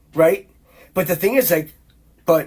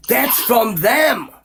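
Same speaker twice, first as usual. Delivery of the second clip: emphatic shout; 4 semitones higher, much slower than usual. Real, not acted. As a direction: hammer each word out angrily. Ranting about documents, voice rises.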